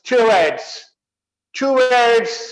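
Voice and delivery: "टुवर्ड्स" with a short a after t, "tuwads"; correct towards. Shown as a demonstration. Teacher models the correct word for students. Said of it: "ट के बाद अ बोल रहा मैं".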